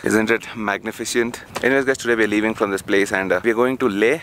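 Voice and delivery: cold-numbed lips. Real, not acted. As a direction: talk with numb frozen lips. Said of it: "sorry for the way I'm talking".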